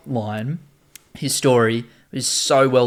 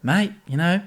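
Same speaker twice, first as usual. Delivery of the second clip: gruff New York dad, higher; New York accent; 6 semitones higher, 3 dB louder than usual. Acted. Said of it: "I did the New York accent again".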